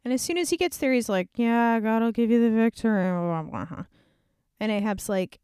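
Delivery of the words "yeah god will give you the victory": sarcastic parroting. Acted. Micaiah parroting false prophets.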